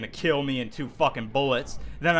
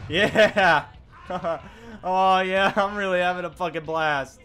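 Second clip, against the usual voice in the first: sarcastic. Real, not acted. Ironic praise.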